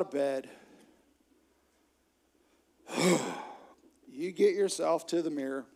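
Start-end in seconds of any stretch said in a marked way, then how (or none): 2.9-3.5 acted sigh of dragging out of bed; heavy wake-up exhale; weary morning sigh. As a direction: heave a tired sigh. Acts getting out of bed.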